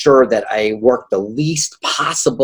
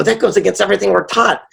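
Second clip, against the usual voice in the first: high, incredulous protest; retold disbelief; 9 semitones higher than usual. Retelling to host his shock at the billionaire's advice, incredulous. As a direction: replay your own shocked reaction.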